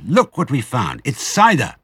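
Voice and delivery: high, delighted cub; excited cry. A narrator's reading. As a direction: pipe it out in thrilled discovery. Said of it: "he cried".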